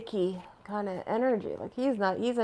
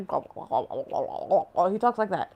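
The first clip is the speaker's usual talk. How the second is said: lightly voiced slow senator drawl; slow it right down, mimicking his speech; a hint of the senator's slow way of talking; slow imitation of the senator; much slower than usual. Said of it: "That's what he sounds like".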